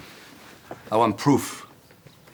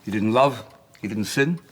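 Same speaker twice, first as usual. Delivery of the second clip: heated outburst; 2 semitones higher, 4 dB louder than usual. Acted. Angry protest to the bishop defending Casanova. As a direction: fire back at the Church's position. Heated argument over the memoirs.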